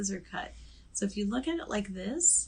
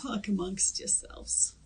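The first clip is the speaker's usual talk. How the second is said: imitated New York accent; slower than usual. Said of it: "Saturday Night Live skit".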